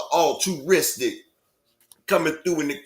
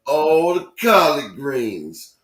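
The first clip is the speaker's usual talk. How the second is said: drawn-out Pops impression; 3 dB louder, slower than usual. S1 does Pops from Friday.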